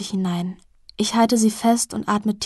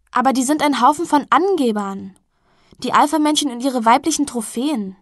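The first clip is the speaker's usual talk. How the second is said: higher and louder, sneering at the jocks; scornful; 4 semitones higher, 5 dB louder than usual. Acted. Milia scorns the party crowd to Penny, scoffing. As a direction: scoff at the show-offs.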